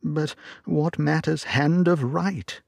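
another voice. A narrator's reading. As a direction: lift the voice up high and slow it, as if someone else speaks. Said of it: "with another voice".

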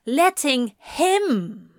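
high, lingering stress on "Letting him"; savoured wonder. A narrator's reading. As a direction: draw out HIM with a falling tune. Repeated phrase in wonder.

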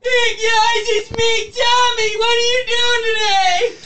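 motivational speaker. Pretend. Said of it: "motivational Tommy".

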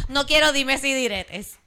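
slow, deliberate, mock-serious; mock stern. Host mock-sternly quoting her own rule, slow. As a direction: say it slowly like a stern warning.

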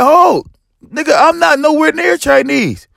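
high, slow, half-crying protest; panicked plea. Retold or imitated. Chased by a mob, he pleads in a high half-sob that he is not Chinese. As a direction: whine it out like you're about to get jumped.

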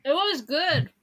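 talking while chewing; words round a bite of food; mouth full. Real, not acted. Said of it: "Sorry, I'm eating".

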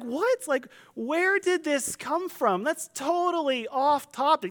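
high-pitched, drawn-out incredulity; mock bafflement. Listeners react to the off-topic interruption, mock bafflement. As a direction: act thrown by a random interruption.

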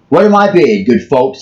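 rally the crowd like an auctioneer; auctioneer calling. Retold or imitated. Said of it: "he cried".

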